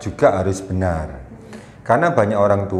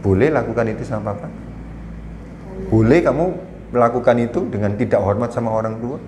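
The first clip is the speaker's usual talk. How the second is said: calm firm question. Retold or imitated. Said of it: "saya bilang".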